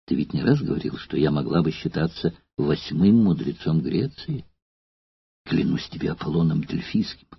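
put-on softly coaxing the old man; sweet, quiet persuasion with a flirt. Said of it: "Она кокетничала и ласкала старика".

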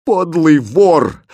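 enraged princess cutting him off; furious outburst. Acted. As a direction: tear into him. Princess raging at her captor.

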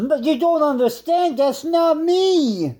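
frantic high-pitched pleading with the boss; desperate man. Acted. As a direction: beg the boss to believe you. Same desperate role.

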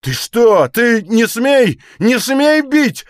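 officer resisting the blows; growling outrage. A narrator's reading. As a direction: roar the refusal. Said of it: "рычал Калмыков".

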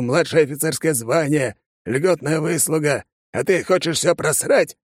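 lightly voiced stern commander; scolding colonel. A narrator's reading. Colonel scolding the soldier, stern. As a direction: dress him down.

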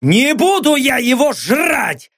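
high, slow furious bark; barked refusal. Acted. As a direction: bark it back, dead set. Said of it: "снова рявкнул Лёха". (громкий рявкающий отказ)

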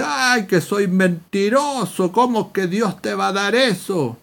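lightly acted mocking challenge; mocking disbelief. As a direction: imitate a scoffer making fun of a believer. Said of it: "se mofa de mí".

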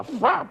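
whooshing stab noise by mouth; sudden burst of air for a stab; comic sound effect of a blade; imitated sword thrust. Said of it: "y la hago así".

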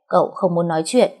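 "Cậu không muốn nói chuyện" said lightly through a grin; grinning cheekily. Acted. Thơm teasing the grumpy young master, grinning. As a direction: toss his words back at him, teasing. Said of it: "cười toe toét".

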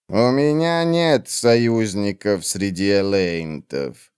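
cold witch. Acted. Old witch coldly dismissing the warrior, slow and low. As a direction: drag each word out, icy and dismissive.

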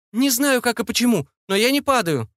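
high, bewildered call; high-voiced wondering cry; excited calling back. A narrator's reading.

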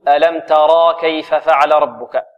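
"ترى" with a long aa held after the raa; wrong added alif. Shown as a demonstration. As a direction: stretch the final vowel of "ترى" into an alif. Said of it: "يثبت الألف بعد الراء فيقول". (إثبات الألف بعد الراء في "ترى")

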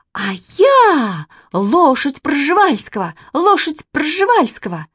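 громкий высокий крик, медленно; оскорблённо выкрикивает; закричала обиженно. A narrator's reading. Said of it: "закричала оскорблённая". (Катя обиженно кричит на мальчика)

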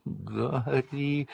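clinging to his knees, moaning. Acted. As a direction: moan the name pitifully. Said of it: "простонал Петтигрю".

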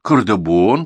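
grandma affirming the name to her grandson; confirming. Acted. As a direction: insist on "Кардабон". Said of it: "подтвердила баба Дуня".

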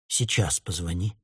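woman urging driver to call his mother, hushed; hushed plea. Acted. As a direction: press him quietly to call. Urgent quiet plea.

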